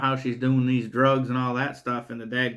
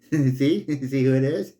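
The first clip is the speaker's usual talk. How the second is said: chuckling through a mock villain taunt; laughing taunt. Killer taunting the mother, laughing lightly.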